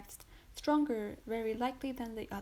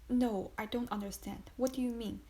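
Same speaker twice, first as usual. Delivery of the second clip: stammering. Acted. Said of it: "stammered the unhappy woman".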